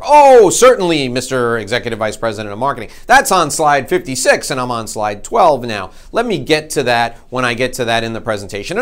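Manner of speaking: chirpy salesman waving off the executive; breezy dismissal. Retold or imitated. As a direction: breezily put him off. His own brushed-off reply.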